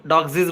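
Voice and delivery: డాగ్సీస్ with an extra "zeez" syllable; wrong plural. Shown as a demonstration. Teacher showing another form to avoid, wrong plural. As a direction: add a wrong "-ziz" ending to డాగ్సీస్. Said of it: "కూడా అనకూడదు".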